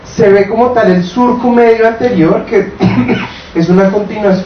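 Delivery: hoarse, rough voice from a cough. Real, not acted. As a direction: talk through a hoarse throat. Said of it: "tengo voz de cafetera".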